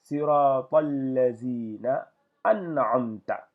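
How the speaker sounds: siratal lazina an'amta drawn out, the final A sounded; slow recitation. Shown as a demonstration. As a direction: recite slowly and voice the A at the end. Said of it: "je suis obligé de lire la A".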